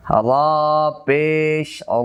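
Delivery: "র পেশ, অ" spelled slowly, ending on a heavy "ro"; o-like pesh. Shown as a demonstration. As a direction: draw out "র পেশ", then "অ" as "ro". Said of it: "ওকারের মতো". ("র পেশ, অ"-তে শেষে ও-কারের মতো "রো")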